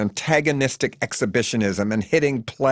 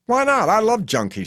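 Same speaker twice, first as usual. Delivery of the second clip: much higher, louder defiant challenge; militant; 11 semitones higher, 4 dB louder than usual. A narrator's reading. Faye defends junkies to the hitchhiker, militant and loud. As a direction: fire it back like a battle cry. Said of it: "she says with sexual militancy".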